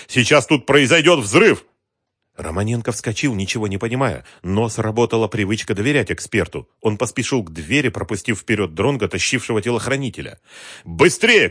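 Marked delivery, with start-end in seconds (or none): 0.1-1.6 high, loud, drawn-out alarm; urgent shout. A narrator's reading. Investigator warns of an imminent blast, slow urgent shout. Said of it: "закричал он". 10.8-11.5 high, loud hurry-up; urgent shout. A narrator's reading. Investigator hurries the captive out, urgent shout. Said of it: "крикнул он".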